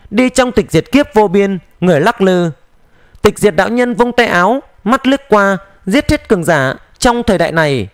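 ordinary delivery, nothing marked

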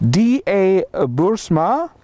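hint of a South African accent; lightly South African name reading; slight South African accent. Shown as a demonstration. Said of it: "I said that in a slightly South African accent".

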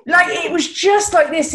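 laughing through the words. Real, not acted. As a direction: speak while cracking up. Laughing while retelling outburst.

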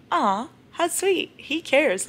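high, slow, dreamy coo; mock swooning reader. Reader swooning over a fictional possessive man, high and slow. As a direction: gush over him like a smitten fan. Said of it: "I'm like".

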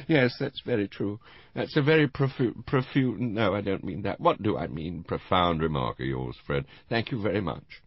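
put-on high, muddled old lady losing her word; a boozy old dear stumbling over a long word; tipsy old woman groping for a word. Tipsy Mrs Rival fumbling word.

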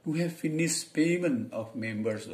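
slow, careful, high English demo; English example sentence. Shown as a demonstration. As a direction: read it out slowly as a model sentence. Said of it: "tuh kan pronunciation baru itu".

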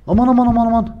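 excited. Real, not acted. Close call in the game.

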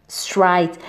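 "straight" said low and clear with a full R and a long ai; teacher repeating "straight" for pupils; model pronunciation. Shown as a demonstration. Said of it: "ننطقوها نقولوا straight".

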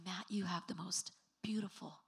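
a hint of a dreamy admirer; soft, lingering retold compliment; adoring boy. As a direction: imitate a boy lost in someone's eyes. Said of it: "just gazing in his eyes".

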